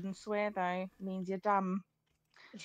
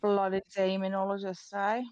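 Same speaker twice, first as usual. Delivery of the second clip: put-on Irishy accent; 4 dB louder than usual. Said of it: "fucking Irishy or something".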